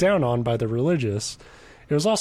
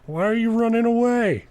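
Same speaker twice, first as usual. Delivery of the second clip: creepy guy voice; 8 semitones higher than usual. Retold or imitated. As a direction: ham up a leering stranger, way up high. Mocking a creepy pickup guy.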